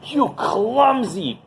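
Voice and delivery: mock-yell at the man who knocked the towel down; angry yelling. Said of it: "he starts yelling at him".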